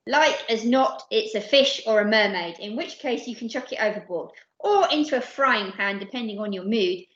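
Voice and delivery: brisk, officious rule-quoting; protesting. Acted. Percy quoting pirate rules to captain, earnest protest. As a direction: object by reciting the rules. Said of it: "protested Percy".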